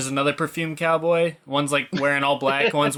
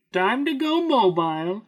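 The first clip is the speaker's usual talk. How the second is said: lightly voiced villain, rising on go; a hint of Bane declaring it; Bane impression; 7 semitones higher than usual. Friends quoting a movie, a mild Bane voice.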